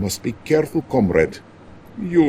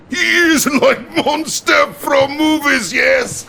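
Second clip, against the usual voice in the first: gleeful exclamation; 12 semitones higher than usual. Acted. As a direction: blurt it out with relish. Premier mocking the villain.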